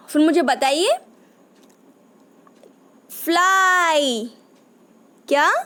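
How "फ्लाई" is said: slow, drawn-out फ्लाई with a long ai; slow demo word. Shown as a demonstration. Teacher sounds out a word for children, slow and drawn out. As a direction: stretch फ्लाई out so kids catch the ai. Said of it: "ज़रा ध्यान से सुनिए".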